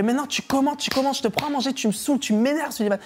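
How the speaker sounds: mock angry rant. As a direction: pitch it up and scold. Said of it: "Il fait".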